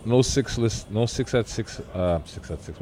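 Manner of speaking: high and stumbling over words; losing the thread, stoned; stoner. Real, not acted. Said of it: "Oh, I'm high right now".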